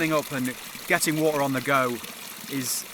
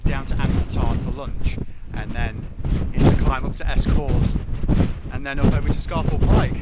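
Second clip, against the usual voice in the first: shouting over wind; 6 dB louder than usual. Real, not acted. Talking over wind outdoors.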